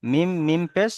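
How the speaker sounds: "মিম, মিম পেশ" recited word by word; spelling-out demo. Shown as a demonstration. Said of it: "নুনটা কি উচ্চারণ হবে".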